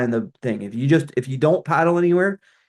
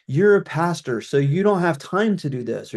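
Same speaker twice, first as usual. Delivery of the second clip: mildly mocking, a bit higher; mocking email tone; 4 semitones higher than usual. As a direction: lightly parody a condescending email. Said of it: "let's call it the tone of those emails".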